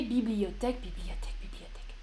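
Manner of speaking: "bibliothèque" over and over, fading to a near whisper; tedious repetition. Shown as a demonstration. Teacher shows the repetition to avoid, fading away. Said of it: "Je ne veux pas répéter".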